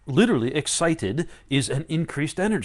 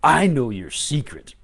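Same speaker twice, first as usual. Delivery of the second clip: teasing knowing; 5 semitones lower, 6 dB louder than usual. Pretend.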